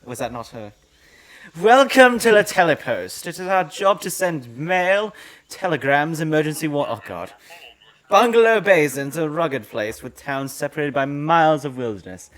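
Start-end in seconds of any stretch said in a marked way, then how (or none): 1.6-6.9 loud game character voice. Acted. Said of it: "You gonna put on your voice?". 8.1-12.3 character voice. Acted. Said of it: "You gonna put on your voice?".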